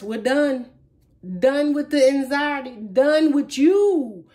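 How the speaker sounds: speaking as Cancer. Acted. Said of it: "This is Cancer talking".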